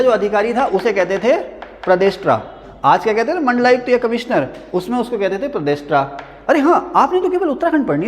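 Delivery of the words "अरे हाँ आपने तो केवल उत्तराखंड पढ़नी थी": teasing laugh. Real, not acted. Teasing colleague off camera.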